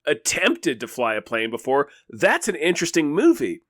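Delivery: eager pitch of a better movie; excited pitch. Real, not acted. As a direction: sell the story with mounting enthusiasm.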